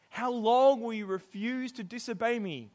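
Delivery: put-on a parent losing patience with disobedient children; exasperated parent. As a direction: scold the kids, fed up. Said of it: "interactions I've had with my kids".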